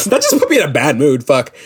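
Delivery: amused groaning over a sour mood; rueful laughing. Real, not acted. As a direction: laugh through the complaint. Laughs off own bad mood.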